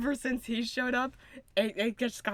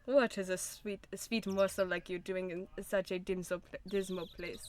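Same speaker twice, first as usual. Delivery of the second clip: put-on uncertain German accent; 4 semitones lower than usual. Prosecutor retrying his pick-up line, badly faked German accent. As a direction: wobbly attempt at a German accent. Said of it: "I don't know what accent I'm doing".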